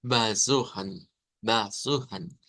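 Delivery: "besuchen" slowly, first vowel as a schwa near A; teacher's slow "besuchen" with A-like schwas; schwa pronunciation. Shown as a demonstration. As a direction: say "besuchen" like "basujan", drawn out. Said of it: "El sonido es A".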